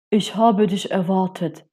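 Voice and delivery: a lightly voiced wise old octopus, unhurried; a hint of a solemn old sea creature greeting his guest; deep octopus voice. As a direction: speak as the mysterious octopus waiting in his cave. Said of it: "sagte Oktopus mit tiefer Stimme".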